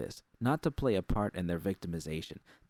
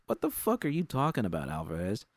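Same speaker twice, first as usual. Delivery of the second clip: angry retort; 4 semitones higher than usual. Acted. Susie snaps back at Judy.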